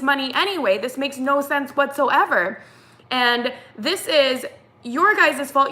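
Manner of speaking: mildly heated, indignant re-enactment; acting out a fed-up customer; retold exasperated arguing. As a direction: argue your case with rising disbelief. Retold heated argument with agent.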